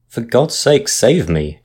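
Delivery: high, pleading in terror; terrified moan. A narrator's reading. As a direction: beg for your life. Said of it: "Jackson moaned in terror".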